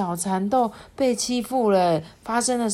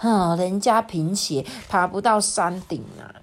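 grumbling. Acted. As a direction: grumble a little as a reluctant climber. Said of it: "也在那边碎碎念说".

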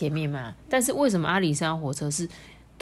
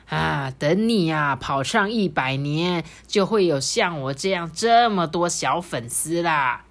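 put-on old grandpa engine. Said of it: "蒸汽爷爷就说".

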